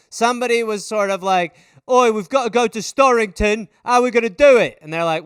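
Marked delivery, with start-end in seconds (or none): 1.9-4.8 cockney crook. Retold or imitated. Heist planner voiced in a story.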